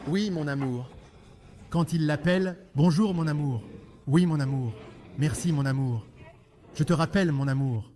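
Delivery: honeyed tone to a spouse; tender endearment. Shown as a demonstration. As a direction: coo at your beloved. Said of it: "ta douceur".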